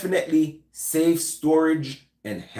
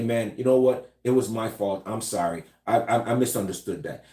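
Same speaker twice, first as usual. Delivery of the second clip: non-threatening apology; 3 semitones lower than usual. Shown as a demonstration. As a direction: back down gently, hands up. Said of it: "Just tone it down and say".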